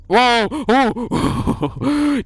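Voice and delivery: sudden loud high yelp of surprise; startled whoa. Real, not acted. Streamer jolted by a jump scare, loud startled cry. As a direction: jump at the fright.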